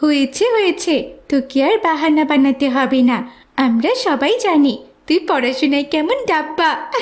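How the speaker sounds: mocking. Classmate mocking Mahadi.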